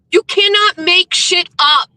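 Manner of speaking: slow, punched scolding; stern angry telling-off; angry rant. Real, not acted. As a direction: hammer each word at the troll. Ranting at troll account.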